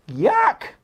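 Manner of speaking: high, loud yelp of disgust; disgusted yuck. Real, not acted. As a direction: blurt it out in revulsion. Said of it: "I almost croaked".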